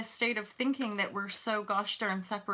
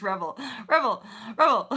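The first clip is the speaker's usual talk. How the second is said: teasing name call; 5 dB louder than usual. Real, not acted. Teasing calling a viewer's name.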